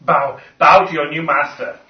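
booming order to bow to the new master; a loud mock overlord command. Player barking at the creature to bow.

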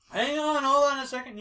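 calling out. Acted. Scooter stalls the caller at the door, calling out. Scooter calls to whoever is knocking.

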